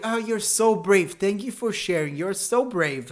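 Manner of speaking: high, slow, gushing voice; gushing fake praise. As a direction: coo it like a fawning fan. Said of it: "if you fart into the mic".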